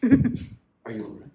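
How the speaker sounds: a high, slow, laughing take on concern; laughing mock concern. Teacher mocks the caring scene, laughing through it. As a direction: send up the worried partner, giggling.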